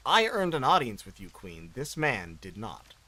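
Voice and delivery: lightly raspy demon queen; a hint of a rasping demon. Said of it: "I'm gonna stop doing the raspy demon voice".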